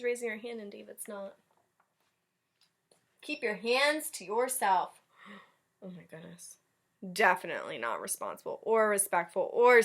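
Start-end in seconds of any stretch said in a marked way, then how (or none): 3.2-5.0 stern teacher. Acted. Teacher voiced in story. 5.2-6.6 gasp, then hushed; shocked. Real, not acted. Reader shocked at David hitting, soft gasp.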